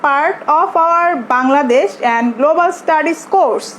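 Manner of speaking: very slow word-by-word reading; text read-aloud. Shown as a demonstration. Teacher reading the text to students, very slow read-aloud. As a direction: read slowly, setting each word apart.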